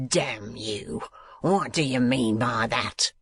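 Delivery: rattled outburst, understated; a hint of alarm in the schoolmaster; perturbed Squeers. A narrator's reading. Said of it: "in great perturbation".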